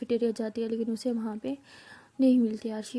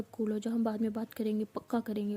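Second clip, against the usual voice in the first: softer, calming her down; gentle, hand-on-shoulder reassurance; soothing; 5 dB quieter than usual. Retold or imitated. Pihu calming angry friend, hand on shoulder.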